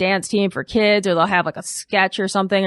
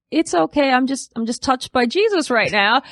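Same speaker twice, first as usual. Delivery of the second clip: mock pious grandma; 4 semitones higher than usual. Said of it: "my grandma turns to the pastor and goes".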